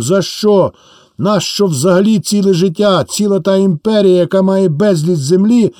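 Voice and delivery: peasants clamouring for land, rising to a cry; peasants' clamour. Acted. Peasants under their thatch arguing about land, growing heated.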